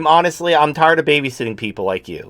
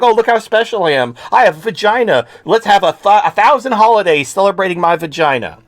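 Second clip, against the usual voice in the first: mocking, whiny, higher-pitched voice; 5 semitones higher, 3 dB louder than usual. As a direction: sneer at it in a higher voice. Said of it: "That's what you sound like".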